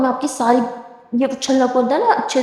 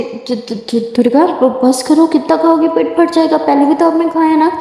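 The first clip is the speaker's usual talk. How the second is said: stuttering, then higher pleading; stammering; 4 semitones higher, 3 dB louder than usual. Acted. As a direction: stumble over her name, hungry. Stammering with hunger. (भूख से हकलाते हुए बोलना)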